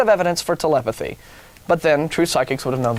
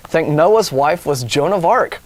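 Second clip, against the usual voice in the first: slow incredulous; 4 dB louder, slower than usual. Acted. Slowed incredulous punchline.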